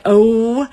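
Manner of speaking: "oh" with a gliding end, oh-oo; American diphthong oh. Shown as a demonstration. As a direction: draw out "oh" with the extra glide at the end. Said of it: "that little extra piece on the end like Americans like to say".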